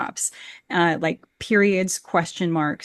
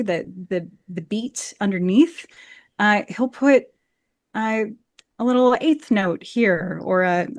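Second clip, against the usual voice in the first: ordinary talk, nothing marked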